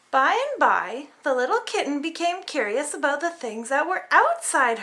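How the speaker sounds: lively storybook reading; reading to children. A narrator's reading. Parent reading a picture book to kids, lively. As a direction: read it like bedtime for little ones.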